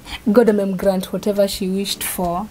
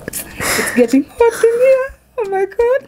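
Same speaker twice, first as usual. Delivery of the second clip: breathless tearful whisper; 12 semitones higher than usual. Real, not acted. Tearful reveal moment, overcome.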